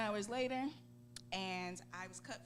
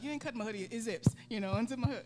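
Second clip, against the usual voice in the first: indignant protest; 2 semitones higher, 8 dB louder, faster than usual. Retold or imitated. Retold protest to staff cutting hoodie.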